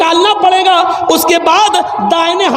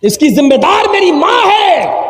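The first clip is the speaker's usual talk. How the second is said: accusing cry; 3 semitones higher than usual. Acted. Condemned son blames mother.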